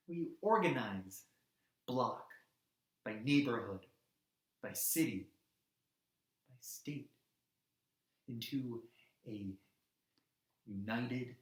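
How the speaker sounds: low, word-by-word with long pauses; deliberate emphasis. Acted. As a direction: space out each unit like steps. Deliberate build of a demand.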